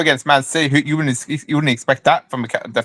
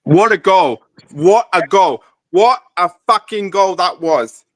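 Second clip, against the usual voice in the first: excited; 5 semitones higher, slower than usual. Real, not acted. Reacting to live goal.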